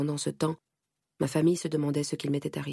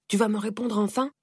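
growled demand; 4 semitones higher than usual. Acted. Father demanding an answer from his daughter, angry. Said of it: "gronde-t-il".

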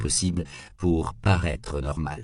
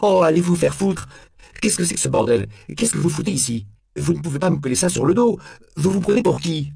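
very high, loud indignant rant; outraged cornered suspect cursing; furious outburst; 11 semitones higher, 5 dB louder than usual. A narrator's reading. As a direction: explode at them, pitch and volume right up. Cornered suspect explodes at the officers.

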